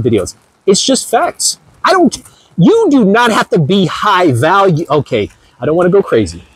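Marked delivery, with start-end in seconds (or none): none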